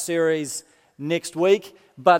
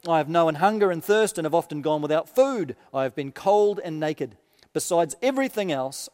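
measured, solemn reading of Paul's letter; preacher reading scripture aloud. Acted. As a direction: read it out to the congregation with weight. Minister reads Paul's letter aloud.

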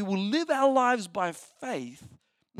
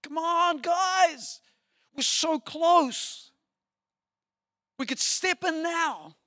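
higher, eager coaxing, slowing on so close; pleading Caleb; 9 semitones higher, 3 dB louder, much slower than usual. Retold or imitated. Caleb pleading with the fearful crowd, a hint of eager coaxing. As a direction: urge the crowd like a friend on the brink. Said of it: "You can hear them. Can you imagine?".

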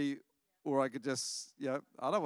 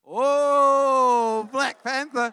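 much higher and louder joyful whoop; delighted exclamation; 8 semitones higher, 16 dB louder, much slower than usual. Real, not acted. Reacting to child's answer.

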